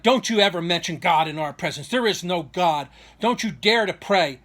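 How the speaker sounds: emphatic retold warning, slowing down; measured mock outrage; toned-down angry cop. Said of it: "not being as passionate and emotional".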